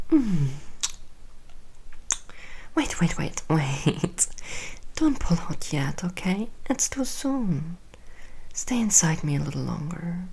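hushed, tender afterglow whispers; soft whisper. Acted. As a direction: whisper softly after climax.

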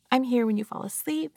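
voiced gentle reassurance; soft spoken.

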